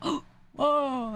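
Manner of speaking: imitating gawkers, high gasped whoa; mock amazement. Streamer mocks people gawking at the New York accent, mock amazement. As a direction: put on an exaggerated wow at hearing an accent. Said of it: "They hear it and they're like".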